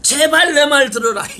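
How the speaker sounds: a wise father begging his sons to listen; pleading wise father. Acted. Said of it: "이렇게 얘기해".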